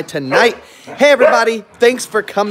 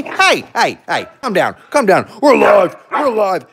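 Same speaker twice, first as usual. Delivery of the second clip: calling out; 4 semitones higher than usual. Real, not acted. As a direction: raise your voice to settle the dogs. Calling out to the excited dogs.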